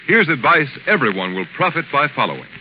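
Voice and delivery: brisk radio commercial pitch; ad read. Acted. The announcer urges listeners to buy blue coal in a brisk ad read. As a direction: sell the coal earnestly.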